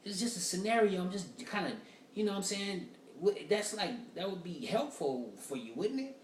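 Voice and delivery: high, incredulous mock retort; exasperated reply. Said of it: "I'm like".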